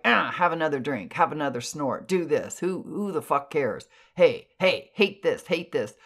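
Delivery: punky, snarky heckling; snarky banter. Retold or imitated. Voices of punks goading a troubled person, snarky banter. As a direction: egg them on like a snarky punk. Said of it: "I would hear that snarky banter".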